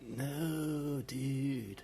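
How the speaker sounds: put-on a lazy, half-hearted American accent, drawled on "dude"; a badly faked American surfer saying "dude". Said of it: "That's awful".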